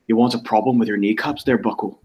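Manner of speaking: put-on light Belfast accent on a threatening quote; mock Northern Irish menace, lightly voiced. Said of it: "I can do the accent correctly".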